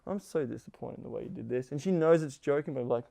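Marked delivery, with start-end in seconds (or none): 0.1-1.7 mock disappointment. Shown as a demonstration. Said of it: "in a fun way you're saying it".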